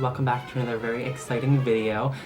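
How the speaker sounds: lisping around fake fangs; talking with fangs in. Real, not acted. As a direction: speak through plastic vampire fangs. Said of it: "I'm talking in a weird voice right now because I have these amazing fangs in".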